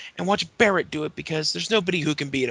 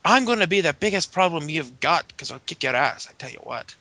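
bad Irish accent. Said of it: "really bad Irish accents".

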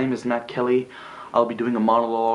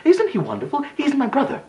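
very high, gushing imitation of himself; sarcastic squeal of brotherly pride; mock happy admiration. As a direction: parody a proud, delighted brother. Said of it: "I suppose you thought I was quite happy, saying".

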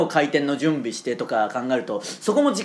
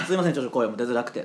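quick apology through a tired throat; real strained voice after clearing the throat; voice not coming easily; 5 semitones lower, 4 dB quieter, faster than usual. Real, not acted.

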